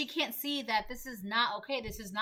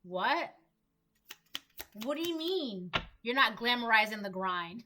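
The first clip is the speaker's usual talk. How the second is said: mildly mad, imitating a friend's disbelief; string out indignant questions, mock-offended; mad, incredulous. Karmic friend challenging someone who isn't miserable, mildly mad. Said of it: "she's, like, mad".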